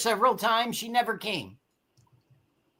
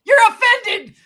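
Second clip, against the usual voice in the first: shouting; 9 semitones higher, 4 dB louder, slower than usual. Real, not acted. Heated argument, teasing Gino.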